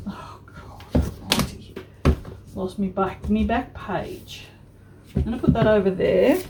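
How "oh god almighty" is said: breathy whispered groan of dismay; exasperated. Real, not acted. Crafter whispering to herself after a mistake, exasperated. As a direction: mutter it under your breath, fed up.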